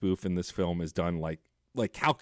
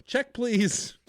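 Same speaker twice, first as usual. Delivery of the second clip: mock hasty exit; 14 semitones higher than usual. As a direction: blurt it like fleeing the diner. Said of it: "stand up at the same time and go".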